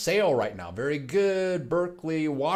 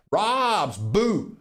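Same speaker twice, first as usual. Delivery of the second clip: startling boo; 6 semitones higher than usual. Pretend. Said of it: "Did I scare you?".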